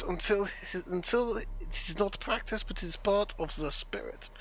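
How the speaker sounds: lightly put-on German accent, reading solemnly. Reading a strategy book aloud to friends, mild German accent. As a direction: read it like a German sword master, half in jest. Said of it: "I am in just German accent".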